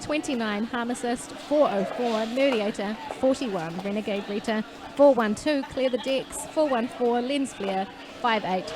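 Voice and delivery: announcer's roll call, names drawn out; roller derby announcer. Real, not acted. Announcer introducing Brutal Pageant's skaters to the crowd, roll-call delivery. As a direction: read out the team line-up for the crowd.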